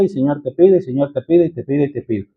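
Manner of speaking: mock monotonous prayer dying down; fading repetitive pleading. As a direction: let the asking fade into a mumble.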